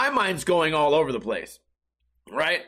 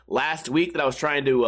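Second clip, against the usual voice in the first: ordinary talk, nothing marked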